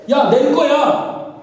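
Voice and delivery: slow, drawn-out retort from impatient Peter; a hint of an impatient Peter; hot-tempered reply. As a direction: brush off the question with a touch of irritation. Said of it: "성질 급한 베드로가 뭐라 그래요?".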